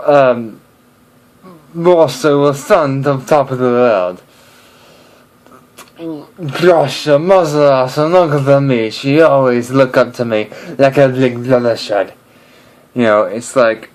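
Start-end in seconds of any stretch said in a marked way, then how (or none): 1.7-12.1 Russian accent. Shown as a demonstration. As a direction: puff up like a proud Russian soldier. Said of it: "Russian is different".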